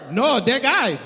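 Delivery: imitated Haitian accent, dismissive correction. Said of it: "I can do the accent".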